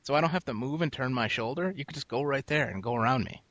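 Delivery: high, exasperated pointing-out; showing people the open room beside him; exasperated retelling. Retold or imitated. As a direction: spell it out to them, fed up. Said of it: "I'm like".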